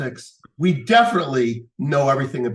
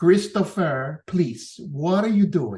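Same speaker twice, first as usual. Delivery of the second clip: halting broken English with lisped s sounds; 3 semitones higher than usual. Telling a story, the speaker quotes a dad asking his son, broken english with a lisp. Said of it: "broken English with a lisp".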